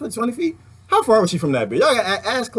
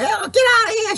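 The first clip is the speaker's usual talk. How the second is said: shouting at the bear. Retold or imitated. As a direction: holler at the bear to get out. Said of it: "And Claudia was like".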